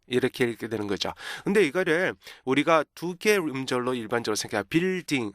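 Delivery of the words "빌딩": 빌딩 as two even Korean syllables; "빌딩" with no inner rhythm; Korean two-syllable reading. Shown as a demonstration. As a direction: say "빌딩" Korean-style, bil-ding. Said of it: "두 개 음절로 생각한단 말이에요".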